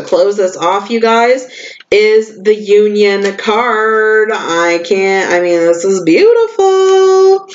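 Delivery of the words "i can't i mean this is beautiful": awed delight. Real, not acted. Admiring the oracle card.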